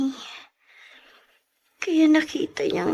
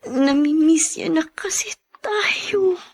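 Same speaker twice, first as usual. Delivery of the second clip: tearful whisper. Acted. Tearful reunion talk.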